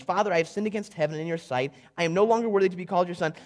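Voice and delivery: rattled off fast like a memorised line; rehearsed speech. Acted. Reading the son's rehearsed speech, quick and recited. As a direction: rush it like lines he practised. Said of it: "here's his rehearsed speech".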